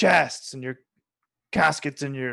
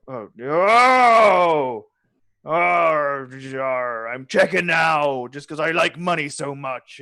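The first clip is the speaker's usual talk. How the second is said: NPC voice; 5 dB louder, slower than usual. Acted.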